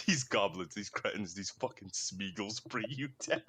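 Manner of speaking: imitated British accent, slowing at the end; mock British motivational rant; British YouTuber. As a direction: scold like a UK YouTuber, last words drawn out. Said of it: "He's from the U K".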